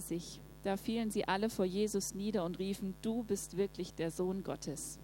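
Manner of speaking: steady, measured Bible reading; calm scripture reading voice. Acted. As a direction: read the passage to the congregation. Reads Bible passage aloud.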